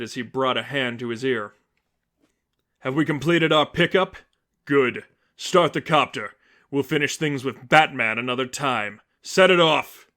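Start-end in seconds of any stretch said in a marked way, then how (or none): 2.8-10.1 villain giving orders. Acted. Seraphim orders his escape.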